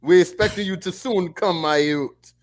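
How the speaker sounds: put-on Jamaican accent. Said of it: "I wanna hear more Jamaican Carl".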